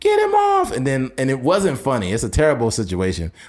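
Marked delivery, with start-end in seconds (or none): 0.0-0.7 put-on angry yell, higher pitch. Retelling a wife yelling at police to free her husband: imitating a wife yelling. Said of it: "the wife yelling".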